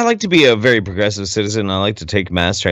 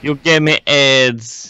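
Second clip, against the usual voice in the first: slow quote; 3 semitones higher, much slower than usual. Retold or imitated. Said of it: "that should be a t-shirt".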